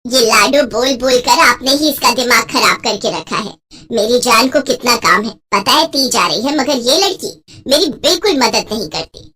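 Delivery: mildly cross mother's voice; complaining mother. Acted. Wife blaming husband for spoiling their daughter, mildly cross. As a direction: blame the indulgent husband, lightly exasperated.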